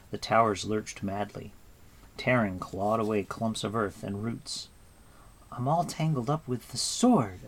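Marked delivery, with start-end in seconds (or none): 5.5-7.4 put-on breathless, struggling girl; out of breath, stuck; panting. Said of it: "Eilonwy panted".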